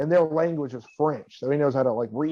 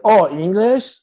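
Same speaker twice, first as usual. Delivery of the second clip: loud, high questioning rise; exaggerated puzzled question; mock surprise; 5 semitones higher, 6 dB louder, slower than usual. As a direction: act taken aback, swooping upward. Acting the French speakers switching language.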